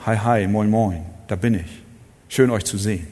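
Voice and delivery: beiläufig, salopp hingeworfenes Hallo; lockere Begrüßung. Retold or imitated. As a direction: wie ein alltägliches Hi unter Kumpels. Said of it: "Es war nicht nur". (lässiger Alltagsgruß)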